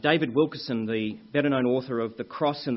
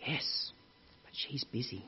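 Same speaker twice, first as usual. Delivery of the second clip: put-on small child; 9 dB quieter than usual. Child answering telemarketer's question.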